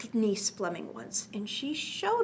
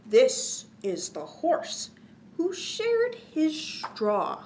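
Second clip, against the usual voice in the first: put-on reading to children; slower than usual. A narrator's reading. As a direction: bounce the rhyme for little listeners. Reads cumulative rhyme to children.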